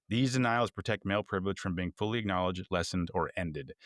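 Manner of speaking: steady reading of a quoted article; plain read-aloud voice, lightly formal. Acted. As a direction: read the paragraph out evenly.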